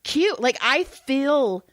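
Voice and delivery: 1 playful cute. Pretend. Playful cute self-display.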